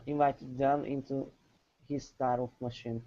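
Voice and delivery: them given a little extra weight; student tries the emphasis on them; stress on them. Shown as a demonstration. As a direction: lean on the word them. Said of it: "stress them when you hit them".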